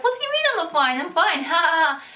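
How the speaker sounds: mock forced laugh. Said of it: "you're like".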